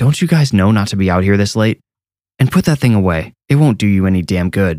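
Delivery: ordinary delivery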